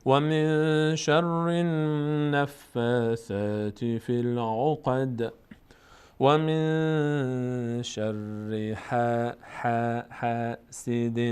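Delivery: slow, drawn-out Quran recitation; tajwid recitation. Shown as a demonstration. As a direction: chant it slowly, stretching every vowel. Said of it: "Quran recitation". (تلاوت آرام و کشیده)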